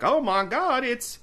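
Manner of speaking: put-on high, loud excited old sheriff; Amos Tupper impression. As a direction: squeal it out as the flustered sheriff. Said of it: "this is my Amos Tupper impression".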